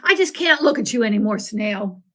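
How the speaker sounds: fast, loud burst of disgust. Acted. Ari to the snail, grossed out and fast. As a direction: blurt it, grossed out.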